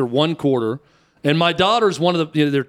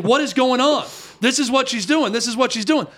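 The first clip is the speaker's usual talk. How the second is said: higher, indignant complaint at the referee; mock yell at ref; 5 semitones higher than usual. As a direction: play the outraged mom protesting the call. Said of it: "yelling at the ref".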